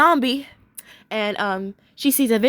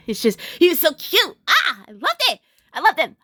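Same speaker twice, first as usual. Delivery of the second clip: gushing; 5 semitones higher than usual. Real, not acted. Gushing again over cute character.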